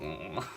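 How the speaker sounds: short, low imitated dying groan; mock dying noise. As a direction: mimic a dying sound. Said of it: "dying and then going".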